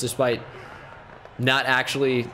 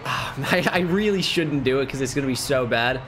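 Alfred. Retold or imitated. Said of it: "He's, he's like".

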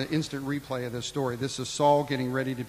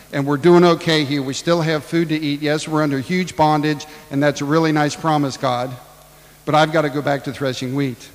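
busy Gideon; 6 dB louder than usual. Acted. Gideon telling the Lord he is too busy, dismissive and loud. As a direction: brush God off, too busy.

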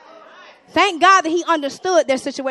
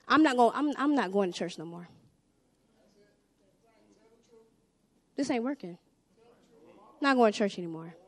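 sulky complaint; 5 semitones lower, 6 dB quieter than usual. Retold or imitated. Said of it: "So you'll say".

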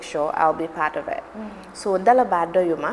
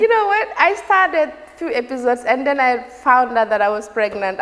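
laughing; 4 semitones higher, 4 dB louder than usual. Real, not acted. Laughing while recalling the pregnancy.

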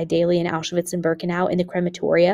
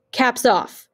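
higher-pitched called-out command; cutting order; 5 semitones higher, 3 dB louder than usual. A narrator's reading. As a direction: call the order across the camp. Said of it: "the order cut through the air".

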